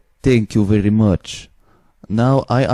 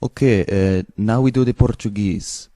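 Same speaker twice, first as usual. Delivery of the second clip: lightly put-on Eastern European accent. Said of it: "I take Eastern European accent".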